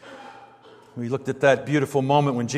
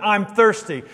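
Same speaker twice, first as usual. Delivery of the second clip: flat assertive statement; 5 semitones higher than usual. Shown as a demonstration. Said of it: "It's a statement".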